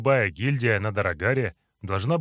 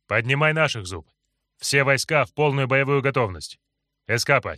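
commanding; 3 semitones higher, 4 dB louder than usual. Acted. Hero gives battle orders.

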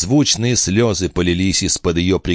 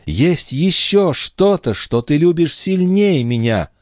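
higher, slow and sighing; mildly sad young wife; 10 semitones higher, slower than usual. Acted. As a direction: sigh it out sadly. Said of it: "вздохнув, добавила она".

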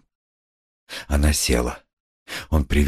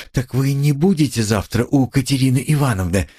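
trembling voice; 7 semitones higher than usual. A narrator's reading. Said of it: "дрогнул голос у Сони".

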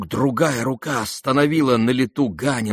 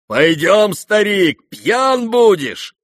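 mocking; 11 semitones higher, 7 dB louder, much slower than usual. A narrator's reading. Rogozhin mocking the old man.

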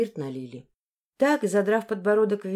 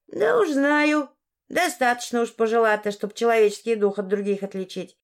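put-on lightly offended old woman; 3 semitones higher than usual. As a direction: answer the doubter with mild offence.

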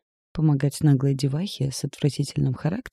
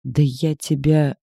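growled; 4 dB louder, slower than usual. A narrator's reading. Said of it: "прорычал".

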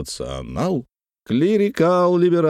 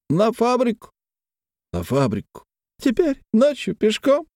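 high tipsy questioning; a hint of tipsy Paklin; lightly voiced drunk; 12 semitones higher than usual. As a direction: ask with mild drunken surprise.

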